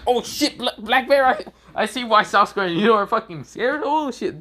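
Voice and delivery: high-pitched startled babble; mock fright. Student noticing bear in the corner, high mock fright. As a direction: stumble over the words in hammed-up fright.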